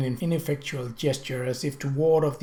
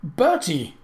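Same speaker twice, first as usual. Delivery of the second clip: horrified; 3 semitones higher, 5 dB louder than usual. Acted. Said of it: "exclaimed in a horrified tone".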